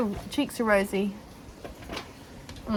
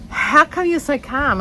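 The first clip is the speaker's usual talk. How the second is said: pitched way up and slow, asking in disbelief; mate's high puzzled question; 8 semitones higher, 5 dB louder than usual. Retold or imitated. Retelling her mate asking why she's so calm, high and amazed.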